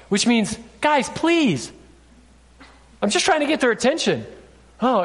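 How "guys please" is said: high-pitched appeal to a noisy group; pleading call. Retold or imitated. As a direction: plead for their attention, voice raised in pitch. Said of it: "and I'll yell at them".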